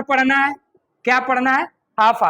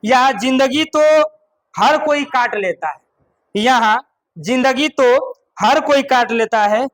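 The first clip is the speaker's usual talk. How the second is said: reciting a couplet. Shown as a demonstration. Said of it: "एगो शायरी मार देता".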